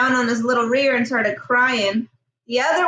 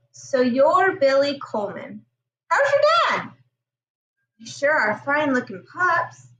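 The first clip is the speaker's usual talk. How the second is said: friendly voice; 2 semitones higher than usual. Acted. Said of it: "In a friendly voice".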